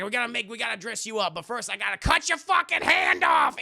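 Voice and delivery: rising into a loud high yell; villain gleefully announcing the hand chop; mock villain rant. To the captive, a mock villain yell building loud. Villain voiced in retold movie.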